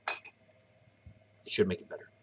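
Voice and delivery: mid-yawn and slow. Real, not acted. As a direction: talk through a yawn. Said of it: "excuse me if I'm yawning".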